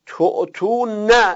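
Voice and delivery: تعطونه very slow, each syllable to-tu-na; slow spelled-out form. Shown as a demonstration. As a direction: drag out تعطونه for the class. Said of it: "نهش میشه تعطونه". (تعطونه خیلی آهسته و شمرده)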